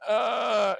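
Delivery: high-pitched wail of effort; acted straining cry. Player acts his character leaping from the slide, straining cry. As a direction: cry out as if launching yourself.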